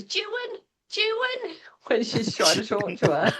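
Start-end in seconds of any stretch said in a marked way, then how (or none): 0.0-0.6 Jewin with a rising call, softer; child's Jewin. Retold or imitated. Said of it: "a little friend at school that goes". 0.9-1.5 Jewin whispered, falling. Retold or imitated. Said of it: "a little friend at school that goes".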